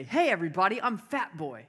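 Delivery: lightly acted announcement, lifted on "Hey"; feed the line with a bit of showmanship; brother dictating a line. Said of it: "you're gonna say".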